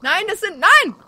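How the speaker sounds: high, loud panicked no; panicked shout. Real, not acted. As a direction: cry out in real alarm. Panicked cry in game.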